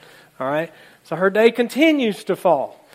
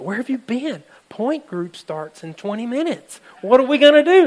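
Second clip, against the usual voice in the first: higher, rising to a loud panicked cry; panicked spouse; 7 semitones higher, 5 dB louder than usual. Retold or imitated. Spouse scolding late Jean, high and panicky. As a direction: spouse frantic about the missed group. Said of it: "her spouse is like".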